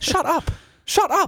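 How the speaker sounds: high, snappy mock retort; mock irritated. Tired runner snapping at cheering spectators, mock irritated. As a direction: brush them off grumpily. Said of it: "I'm like".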